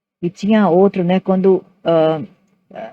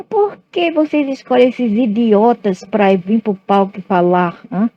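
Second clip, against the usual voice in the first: lightly voiced scolding director, starting higher; school director's rebuke; 4 semitones higher than usual. Director objecting to the children picked for stage, imitated rebuke. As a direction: imitate an indignant headmaster's challenge. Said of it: "ele falou assim".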